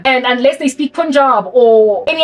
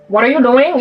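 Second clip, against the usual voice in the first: put-on Indian accent. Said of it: "Raj's accent from Big Bang Theory".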